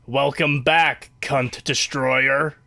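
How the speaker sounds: slow, low robotic greeting; deadpan machine voice, slow. Retold or imitated. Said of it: "the robot just goes".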